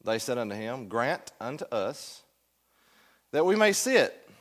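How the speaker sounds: formal Bible reading to a class; scripture reading. Acted. Teacher reads Mark's account to the class, scripture reading. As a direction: read the verse aloud with measured emphasis.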